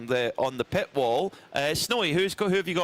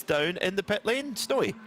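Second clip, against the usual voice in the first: calling out handover; 7 semitones higher than usual. Real, not acted. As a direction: pitch climbing to a high call on the name. Commentator hands over to pit reporter.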